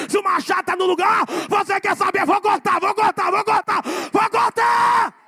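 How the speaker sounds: loud, climbing preacher's chant; full-force preaching. Acted. Preacher urging the congregation to ask their neighbour, full-force preaching. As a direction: drive the congregation to a peak.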